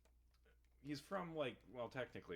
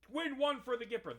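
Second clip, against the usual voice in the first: loud, high hammed-up old-timey cheer; shouted old-timey American slang; mock old-timey exclamation; 14 semitones higher, 11 dB louder than usual. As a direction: belt it like a corny 1800s adventurer. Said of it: "British people aren't going around saying".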